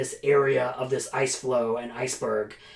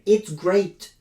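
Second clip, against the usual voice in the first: slightly higher, eager "It's great."; mock gushing praise; 5 semitones higher, 3 dB louder than usual. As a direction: sell the book with a half-joking push. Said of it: "I get really angry about that book".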